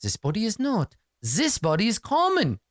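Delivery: lightly voiced snobbish doctor; haughty doctor. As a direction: talk down as if to a bad smell. Doctor sneers at the party.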